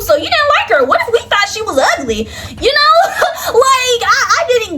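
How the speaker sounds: climbs high into laughing shouts; laughing rant. Real, not acted.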